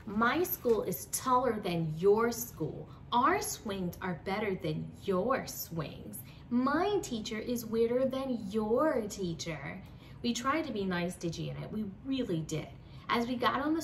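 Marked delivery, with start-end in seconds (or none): 0.1-9.8 bragging. Acted. Bragging cousin Janet voiced.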